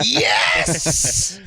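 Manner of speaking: high, loud, eager yes. Retold or imitated. Actor answering the commercial offer, high and eager. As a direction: jump at the offer. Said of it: "You're like".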